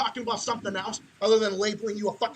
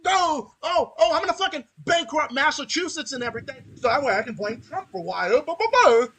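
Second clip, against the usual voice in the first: mock-whiny politician voice into loud babble; mocking governor; 2 semitones higher, 4 dB louder than usual. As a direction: sneer his excuse back at him, then sputter out loud.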